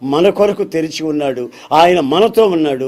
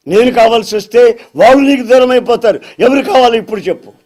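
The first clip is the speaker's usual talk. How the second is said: challenging demand; 4 semitones higher, 4 dB louder, faster than usual. Acted. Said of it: "Jesus demanding a choice".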